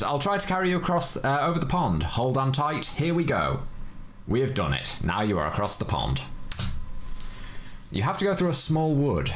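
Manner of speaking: a hint of an eager little butterfly; butterfly character. Butterfly offering to carry the player, lightly voiced cheerful helper.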